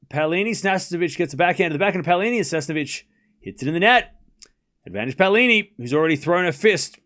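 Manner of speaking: quick-running tennis commentary; live tennis play-by-play. Real, not acted. Tennis streamer calling Paolini's points to chat, live play-by-play. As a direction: call the rally as it happens.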